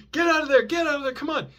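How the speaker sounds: high mock police shout; imitating cops yelling. Cops ordering the suspect out, high mock shout. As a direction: bark it like a cop ordering. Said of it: "so first I hear".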